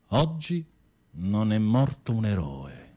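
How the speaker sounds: a hint of a sermon voice, slow; quoting the priest. Quoting Don Minniti's funeral sermon to his cellmate, lightly intoned. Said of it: "Sono parole di Don Minniti".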